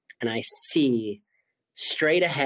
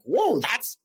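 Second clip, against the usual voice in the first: excited whoa; 9 semitones higher than usual. Retold or imitated. Excited reaction retold.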